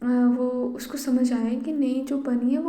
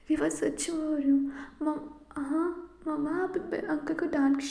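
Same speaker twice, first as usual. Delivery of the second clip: put-on child voice; 4 semitones higher than usual. Child Bunny pleading with mother.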